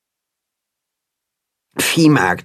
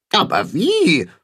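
worried animal; 3 semitones higher than usual. A narrator's reading. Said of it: "Alle rufen durcheinander".

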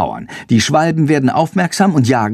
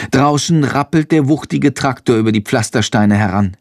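ordinary delivery

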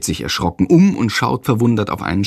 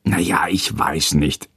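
put-on hesitant, unconvinced boy; doubtful boy; 6 semitones lower than usual. A narrator's reading. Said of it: "entgegnet ihm Jendrik".

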